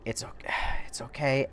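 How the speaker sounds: hushed, sighing reassurance; soothing whisper. Retold or imitated. Driver comforting a crying woman, soothing whisper. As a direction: whisper it to calm someone down.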